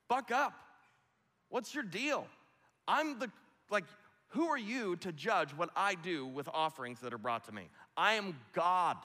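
high, loud mock rebuke; an offended deity putting a human in his place; hammed-up lecturing God; scolding God. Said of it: "God could have come to Cain and said".

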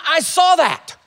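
high, loud accusing yell; shouted, high-pitched gotcha; referee's scream. Acted. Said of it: "point at you and scream".

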